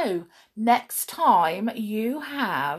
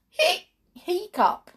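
loud hiccup; 12 semitones higher, 4 dB louder, slower than usual. Acted. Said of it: "a very loud hiccup".

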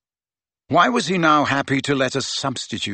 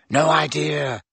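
bright, slightly raised pitch; 4 semitones higher than usual. A narrator's reading. Ginny tells Harry about the rival team, brightly. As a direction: share good news brightly. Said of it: "said Ginny brightly".

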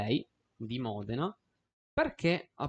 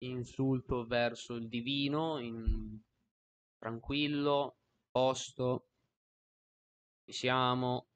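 mock calming; slower than usual. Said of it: "Mi calmo, mi calmo".

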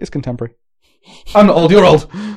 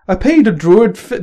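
put-on botched Boston accent drifting into Irish; half-hearted Irish-sounding Boston accent, abandoned mid-word; Boston accent slipping Irish; 3 semitones higher than usual. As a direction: try Boston and land in a lilting Irish accent. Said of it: "It's going to Irish straight away".

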